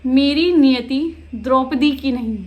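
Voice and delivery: emphatic verse reading, rather loud; declaimed poem lines; poetry recitation. Shown as a demonstration. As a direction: recite it firmly, pausing between phrases. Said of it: "मैं आपको पढ़ के सुनाती हूँ".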